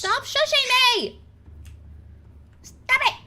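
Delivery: high, loud mock-outraged yell; playful yell. Yelling at chat's TTS shushing.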